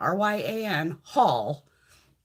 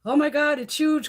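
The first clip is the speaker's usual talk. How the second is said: amazed quote; 7 semitones higher than usual. Retold or imitated. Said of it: "he was like".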